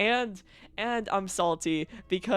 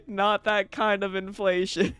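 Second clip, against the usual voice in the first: laughing; 3 dB louder than usual. Real, not acted. Repeating joke while laughing.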